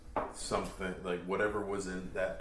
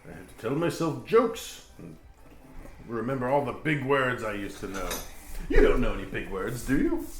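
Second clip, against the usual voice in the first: vain ghost voice; 5 semitones higher, 5 dB louder than usual. Acted. Ghost NPC voice.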